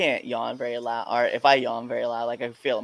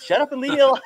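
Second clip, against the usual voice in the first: mock annoyed; 13 semitones higher, 8 dB louder, much faster than usual.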